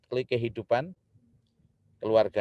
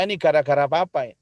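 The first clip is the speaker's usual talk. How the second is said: menyalahkan; 4 dB louder than usual. Retold or imitated. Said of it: "Katanya istrinya".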